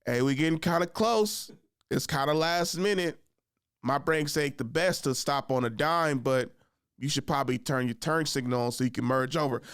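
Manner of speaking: placid, easygoing warning; coolest voice. Retold or imitated. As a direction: point out trouble without any urgency. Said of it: "in the coolest voice".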